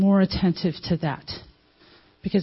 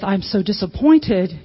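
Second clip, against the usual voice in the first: disappointed parent; 3 dB louder, slower than usual. Retold or imitated. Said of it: "You didn't go in there with".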